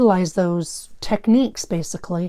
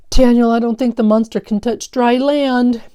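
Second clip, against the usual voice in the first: shouting; 4 semitones higher, 6 dB louder than usual. Acted. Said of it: "Phil shouted".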